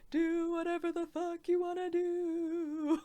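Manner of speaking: hammed-up spirit grandmother; a mock ghost granny telling you to live; Mufasa-style grandmother. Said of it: "a Mufasa-style grandmother going".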